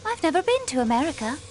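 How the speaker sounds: put-on a slip into an American accent, quick and firm; quick American-accented denial. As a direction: let the American accent show through the denial. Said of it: "you say it with an American accent".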